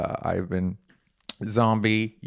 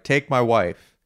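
mock old-school comic. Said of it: "you get up on stage and you're like".

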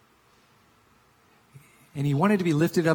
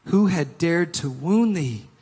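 somewhat raised, slow anguished cry; giant's cry; 3 semitones higher, 6 dB louder, slower than usual. Acted. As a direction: cry it out with grief and anger. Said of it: "cried the giant".

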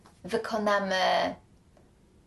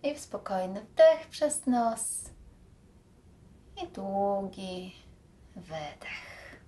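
guided breathing; slower than usual. Acted.

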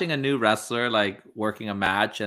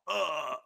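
pained grunt; 6 semitones higher, 6 dB quieter than usual. Retold or imitated. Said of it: "yelling and then being like".

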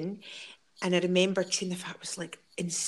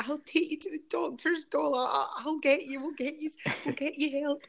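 reassuring friend; 7 semitones higher than usual. Retold or imitated. Voicing friend reassuring a struggling mum.

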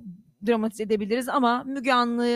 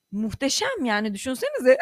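laughing; 10 semitones higher, 4 dB louder than usual. Real, not acted. Güle güle alay.

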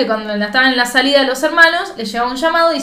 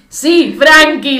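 Frankie drawn out slow and louder; slow knowing answer; 3 semitones higher, 6 dB louder, much slower than usual. Retold or imitated. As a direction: stretch out Sí, Frankie pointedly. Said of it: "le dice la hermana".

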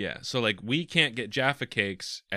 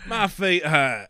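slow British grumble; 4 semitones higher, 4 dB louder, slower than usual. Retold or imitated. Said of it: "angry British man".

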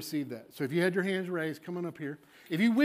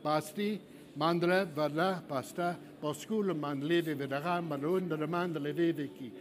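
a flow of rhythmic foreign-sounding syllables; praying in tongues; slower than usual. Real, not acted. Pastor praying in tongues for the congregation to copy. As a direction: chant the syllables so they can copy. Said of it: "I'm gonna pray slowly in tongues".

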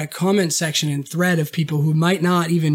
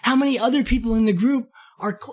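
surprised; 5 semitones higher than usual. Retold or imitated. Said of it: "I'm like".

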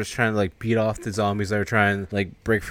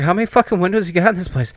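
exasperated yell; 9 semitones higher, 6 dB louder, faster than usual. Retold or imitated. Character exasperated boarding windows.

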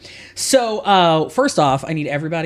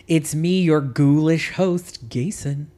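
slow, louder spooky host voice; velvety voice; 4 dB louder, much slower than usual. Acted. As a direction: stretch it out like a ghoulish host. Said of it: "the velvety voice of homosexuality".

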